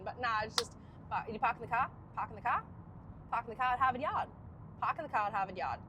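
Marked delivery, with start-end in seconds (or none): 1.3-5.8 R-less Boston "park in the car"; Boston accent. Shown as a demonstration. Trying the Harvard Yard line, Boston accent. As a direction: practise dropping R's Boston-style. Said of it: "you must have that Boston accent".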